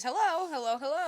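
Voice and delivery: a hammed-up Five Nights at Freddy's greeting; creepy game phone greeting. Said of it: "It's like Five Nights at Freddy's".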